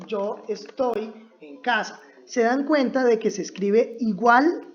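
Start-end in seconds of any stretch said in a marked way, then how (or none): 0.1-2.0 slow correct version. Shown as a demonstration. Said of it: "tenemos que decir".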